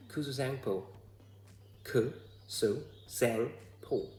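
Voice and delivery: imitated English accent on "Kuzu Zangpo", then drawn out syllable by syllable; English speaker's accent. Showing viewers how foreigners greet, imitated English accent. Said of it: "If an English-speaking person".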